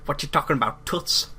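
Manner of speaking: New Yorker accent. Shown as a demonstration. Showing co-hosts his best money-pile fat cat, New Yorker accent. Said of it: "the best New Yorker accent I can do".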